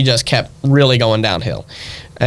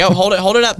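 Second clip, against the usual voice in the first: higher, eager parental prompting; imitated calling out; 7 semitones higher, faster than usual. Parents filming child opening stocking, higher eager call. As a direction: mimic a parent directing the home video.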